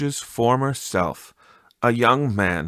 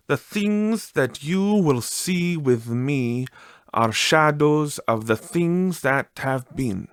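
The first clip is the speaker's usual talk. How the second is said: higher, slow otherworldly spirit; ghostly spirit voice; 4 semitones higher than usual. Acted. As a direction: intone it slowly like a gentle ghost.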